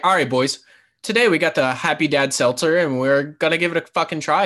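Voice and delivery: imitating a Canadian hype reviewer; fake Canadian accent. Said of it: "Doing the fake Canadian accent".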